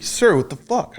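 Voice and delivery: a half-hearted startled cry; startled outburst. Retold or imitated. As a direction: imitate a soldier jolted awake. Sergeant kicked awake, startled.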